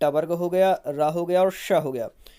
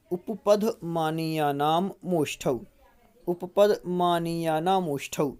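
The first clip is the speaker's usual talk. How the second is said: sutra chanted slowly; slow recitation; slower than usual. Shown as a demonstration. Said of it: "पूरा ये उच्चारण कर लेते हैं".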